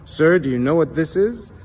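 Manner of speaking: lightly voiced baffled teller; puzzled bank teller. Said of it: "turns to her supervisor and says".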